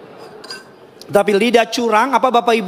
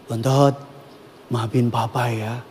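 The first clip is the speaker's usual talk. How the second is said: mild apology; 7 semitones lower, 5 dB quieter than usual. Retold or imitated. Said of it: "Dia minta maaf".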